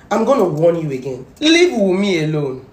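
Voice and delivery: stern slow warning. Real, not acted. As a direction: lay down the law slowly. Warning blogger to leave widow.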